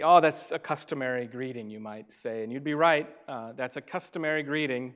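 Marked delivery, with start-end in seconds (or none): 0.0-1.7 louder, informed objection; a scholar correcting you; know-it-all objection. Retold or imitated. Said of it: "will say".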